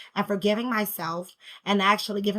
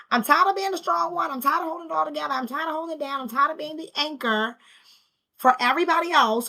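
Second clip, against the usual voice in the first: higher-pitched retold venting; frustrated; 6 semitones higher, faster than usual. Mother retelling her venting to a kind woman, frustrated. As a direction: pour out the list, acting worn out. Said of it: "I'm extremely frustrated".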